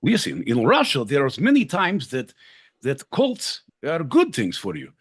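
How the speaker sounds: lightly done mock Russian accent; half-hearted mock Russian accent joking about bread lines. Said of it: "a Russian".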